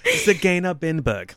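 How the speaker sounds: high mock German voice; high-pitched German. Host repeating the castle name in high-pitched mock German. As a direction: squeak the name, German style. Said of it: "I only speak German high-pitched".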